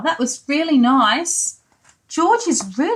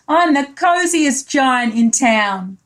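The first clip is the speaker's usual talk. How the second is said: slow happy cry; slower than usual. Acted. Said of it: "he cried".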